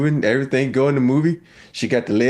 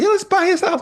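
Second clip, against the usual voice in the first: much higher, eager wife; mock wife voice. Wife wanting the house, high mock voice. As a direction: pitch way up as the wife.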